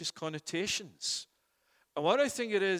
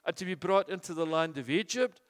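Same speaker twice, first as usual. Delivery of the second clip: anguished pleading; 4 semitones higher, 4 dB louder than usual. Acted. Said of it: "asked the same sort of questions".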